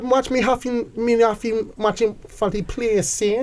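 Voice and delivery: put-on Jamaican accent. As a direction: improvise playful Jamaican patter. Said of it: "I wanna hear your Jamaican".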